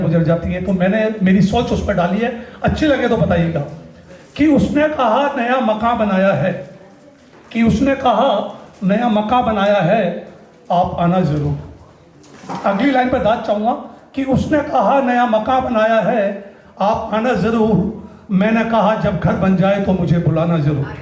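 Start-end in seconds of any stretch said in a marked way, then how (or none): 4.4-11.6 stage poet's cadence; poetry recitation. Acted. Recites his poem Makaan. 14.2-20.9 slow, lingering verse; measured mushaira-style delivery; poetry recitation. Acted. Recites his poem Makaan.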